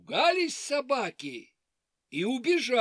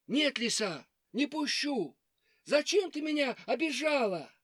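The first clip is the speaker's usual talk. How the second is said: hare voice; 5 semitones higher than usual. Acted. Hare refuses the fox.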